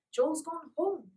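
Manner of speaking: high, slow echo; stunned echo. A narrator's reading. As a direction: repeat it in shock. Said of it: "echoed Polly".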